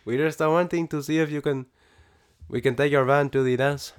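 lightly voiced Pedro; a hint of Pedro's questioning lilt. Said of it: "And my Pedro voice".

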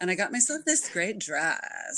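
lazy creaky vocal fry, Kardashian style; vocal fry demo. Shown as a demonstration. Demonstrating vocal fry to the podcast host, creaky and lazy. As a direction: let the voice creak and drag at the ends. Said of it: "vocal fry".

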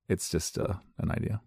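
ordinary delivery

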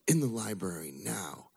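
slow, stern command; a hint of a mean nun barking; mild mock stern nun; mean order. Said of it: "she's mean".

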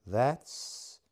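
a choked, unfinished start; trailing off. A narrator's reading. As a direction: stop short, lost for words. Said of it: "she trailed off".

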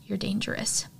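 softly and evenly, a hint of a calm mother; quiet, level warning, lightly voiced. Mother quietly tells her daughter she is dangerous, calm and soft. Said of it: "her mother very calmly says".

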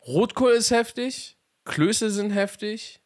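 high, slow, gushing about red cabbage; drawn-out, delighted praise; excited rave. Real, not acted. Raving about food, high pitch. (begeistert und hoch)

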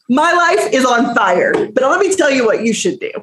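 mock yourself while cracking up; laughing. Real, not acted. Self-mocking about giving advice.

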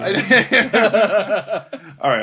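high burst of laughter into all right; cracking up before getting the words out; laughing. Real, not acted. Cracking up at the friend's deadpan refusal.

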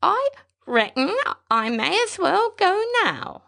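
gently hopeful through grief; old pilot speaking of meeting his wife in heaven, wavering. A narrator's reading. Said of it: "The thin voice wavered".

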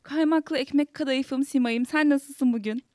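playful affectionate greeting. Real, not acted.

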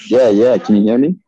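talking through a face mask; muffled voice behind a mask. Real, not acted. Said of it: "you sound like Bane".

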